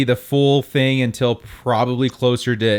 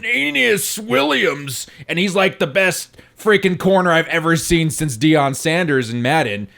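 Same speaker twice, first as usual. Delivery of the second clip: hyped-up YouTuber voice; hype YouTuber; 3 semitones higher than usual. Retold or imitated. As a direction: sell it like a YouTube hype video. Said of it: "Wheels puts out a video like".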